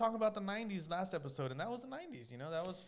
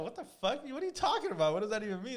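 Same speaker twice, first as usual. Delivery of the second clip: put-on baffled kid; 4 semitones higher, 4 dB louder than usual. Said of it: "And I'm like".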